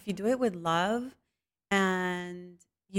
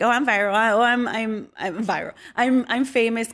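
louder, exaggerated self-important brag; hammed-up showing off about fame; mock boasting; 2 semitones higher, 6 dB louder than usual. Humble cook imitating a show-off, mock boasting. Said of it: "I don't go to you and I'm like".

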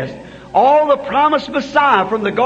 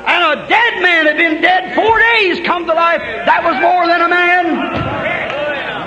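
preaching at full force; 3 semitones higher than usual. Acted. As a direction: thunder it out to the congregation. Preaching climax, rising to shouts.

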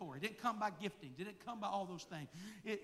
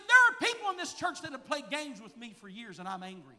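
voice of God; 3 semitones higher, 12 dB louder than usual. Retold or imitated. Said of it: "the Lord said this to me".

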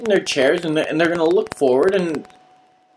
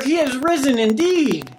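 higher-pitched, rousing reply; emphatic response; 6 semitones higher than usual. Shown as a demonstration. Congregation answering the preacher's call, emphatic and raised. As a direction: lift it up like a bigger congregational answer. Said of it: "you would say even louder".

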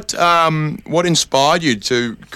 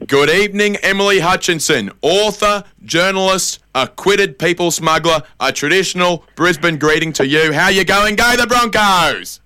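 higher, chirpy talk-show host intro; host opening the interview for his guest, higher mock TV presenter; 4 semitones higher than usual. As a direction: ham up a local TV host greeting his guest. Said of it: "we'll start the interview in three, two".

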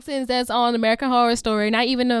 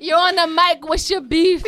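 playful host challenge; 5 semitones higher, 4 dB louder than usual. Pretend. Playful host challenge to her mom.

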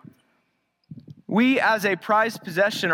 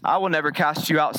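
lower, quick, steady reply; Christ answering; 5 semitones lower than usual. Retold or imitated. Preacher voicing Christ answering the doubting sinner, lightly voiced, lower. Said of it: "says Christ".

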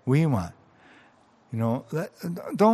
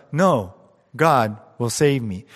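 yelled refusal; 6 dB louder than usual. Retold or imitated. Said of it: "The man yelled".

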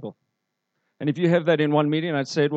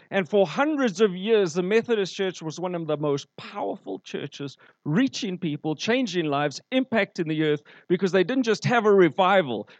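raised-pitch sermon delivery, phrase piled on phrase; impassioned preaching; 3 semitones higher than usual. Real, not acted. Preacher telling the church how Methodists spread revival, impassioned preaching. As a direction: preach it in a driving, rising list.

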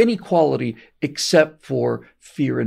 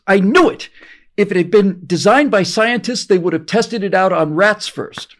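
higher, louder, vindicated outburst; triumphant exclamation; 7 semitones higher, 6 dB louder than usual. Retold or imitated. The old babushka triumphantly answering Brezhnev, loud. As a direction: crow it like she was right all along.

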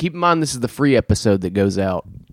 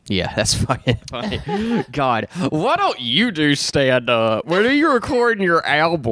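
sarcastic; 5 semitones higher than usual. Real, not acted. Sarcastic mock praise of joke.

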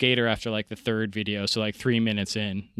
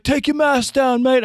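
high, loud taunting voice; the troll demanding he show his face; mock troll; 12 semitones higher, 6 dB louder than usual. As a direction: sneer it like a bully. Troll replies on call.

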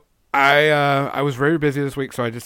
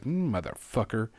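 muttered curse; 7 dB quieter than usual. Retold or imitated. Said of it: "I'm like".

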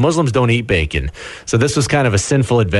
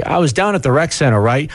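mock rural Canadian accent, pitched higher; local small-town accent; 4 semitones higher than usual. Host imitates small-town locals in a mock rural Canadian accent. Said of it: "You, you'd hear people say".

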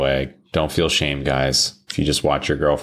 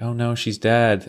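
high, slow fretting voice; drawn-out imitation of alarm; mock horror; 6 semitones higher than usual. Cleaners walking into the wrecked room, mock horror.

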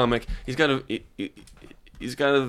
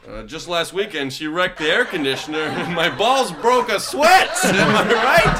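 put-on old borscht belt comic; 3 semitones higher than usual. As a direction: play a cheesy eighties stand-up. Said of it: "a bad eighties comedian".

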